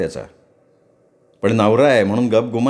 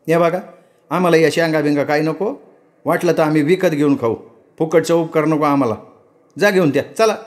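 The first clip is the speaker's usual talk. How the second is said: higher, snappy refusal; mild annoyance; 4 semitones higher than usual. Acted. Ratna refusing the servant's peanuts, mildly angry. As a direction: turn the gift away with pride.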